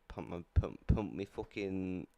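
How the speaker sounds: put-on dopey northern English accent, halting. Partner fumbling for a word, joke northern English accent. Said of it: "Don't do a northern accent".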